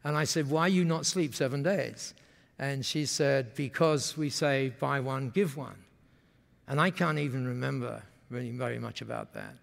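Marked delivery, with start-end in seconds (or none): 0.5-2.1 mirrored pidgin English. Retold or imitated. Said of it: "you speak like that". 3.5-5.8 low, slow imitated Japanese-English; Masami's Japanese-accented English. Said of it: "when they speak like that".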